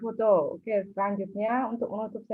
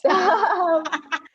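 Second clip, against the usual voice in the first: bursting out laughing; loud laugh; 8 semitones higher, 6 dB louder than usual. Real, not acted. Laughs at the joke about apologizing.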